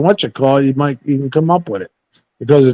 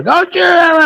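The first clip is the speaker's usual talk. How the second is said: retold counselor scolding. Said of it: "he didn't like that".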